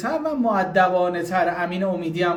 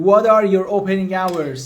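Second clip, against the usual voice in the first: slow, clear, louder English question; slow model question; 4 dB louder, much slower than usual. Shown as a demonstration. Teacher presenting a new question slowly and clearly. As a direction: lay it out word by word for the class.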